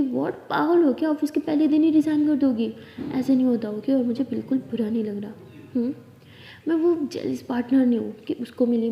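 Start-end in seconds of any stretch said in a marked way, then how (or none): 0.0-2.7 shocked disbelief. Acted. Wife hears plan to resign.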